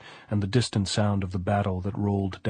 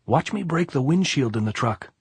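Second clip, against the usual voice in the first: happy; 6 semitones higher, 3 dB louder than usual. A narrator's reading. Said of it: "the gypsy said happily".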